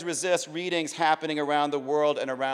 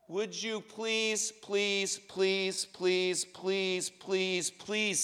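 soft, drawn-out begging; pleading; 4 semitones higher, 5 dB quieter, much slower than usual. Acted. Jig begging the American to stop, soft pleading. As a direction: plead softly, each please a little quieter.

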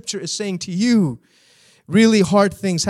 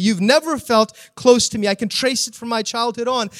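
bitter complaint; 3 semitones higher, 4 dB louder than usual. Acted. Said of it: "He's saying".

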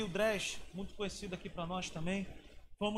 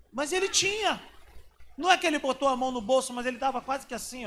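fervent preaching; 6 semitones higher, 8 dB louder than usual. Acted. Preaching, heated point.

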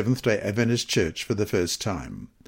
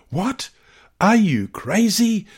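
much higher, startled and incredulous; shocked exclamation; 10 semitones higher than usual. Acted. Wife hearing husband will leave their church, shocked high exclamation. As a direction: read the wife's disbelief with a high jump of surprise. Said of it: "exclaimed his wife".

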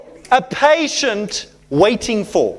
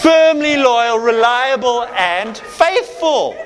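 laughing; 3 semitones higher, slower than usual. Real, not acted. Preacher thinking of his own wife, laughing. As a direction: chuckle as you say it, delighted.

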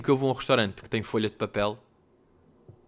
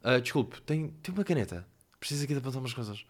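polite, quiet busy-customer tone; casual grown-up request, hurried and softer at the end; businesslike request; 5 dB quieter than usual. Acted. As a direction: ask discreetly, pretending it is for work. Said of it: "Não, faço aquele tom".

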